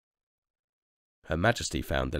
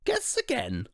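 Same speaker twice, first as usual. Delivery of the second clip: high breathy whisper; hushed high royal tease. Acted. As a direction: whisper it like a secret dare. Queen teases the family.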